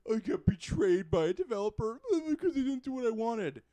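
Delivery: pretending to be a betrayed fan, laughing at it; mock self-pity. Gamer mocks himself to a friend, laughing mock complaint. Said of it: "it feels weird to say".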